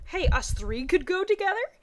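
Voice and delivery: perking up at the idea; a little happier. Acted. Misty suggesting all three go out, happier. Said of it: "Misty asked a little happier".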